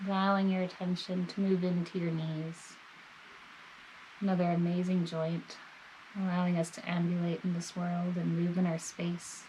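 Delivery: calm, measured body-scan guidance with long pauses; guided meditation. Real, not acted. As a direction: gently guide the listener, leaving space between phrases.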